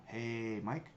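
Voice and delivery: "Hey, Mike" stretched with a rising end; drawn out. Shown as a demonstration. Coach repeating the relaxed drawn-out greeting. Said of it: "Little drawn out".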